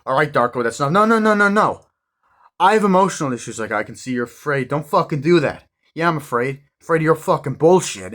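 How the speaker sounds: high, loud yelling back and forth; shouting argument. Retold or imitated. Speaker and Donnie shouting at each other, loud and high. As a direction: lose your temper on stage.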